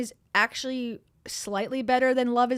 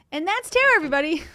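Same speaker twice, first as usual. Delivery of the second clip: high, louder presenter flourish; showcase intro; 5 semitones higher, 8 dB louder, much faster than usual. Real, not acted. Streamer presenting her cat to chat with a flourish.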